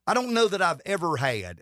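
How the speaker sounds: strained, failing voice; voice giving out. Real, not acted. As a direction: voice cracking and failing. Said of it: "and my voice is giving out on me".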